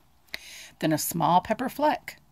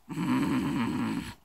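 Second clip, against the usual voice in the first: whimpering moan; 6 semitones lower than usual. Acted. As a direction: moan like a sad bear. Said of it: "He whimpers and he moans".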